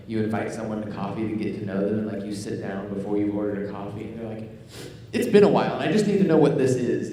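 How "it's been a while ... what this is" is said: loud, pressing imitation of an over-serious date; playfully exaggerated relationship ultimatum; mock-intense demand. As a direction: push for an answer, hammed up. Mimics over-serious coffee date demanding commitment.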